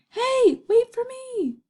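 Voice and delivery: high, loud call after a friend. Acted. Philip calling after Gilbert, high and loud. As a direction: shout to be waited for.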